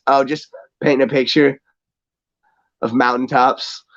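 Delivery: imitated downbeat monotone; drab and dull. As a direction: say it dully, with no interest at all. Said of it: "drab and dull the way he says it".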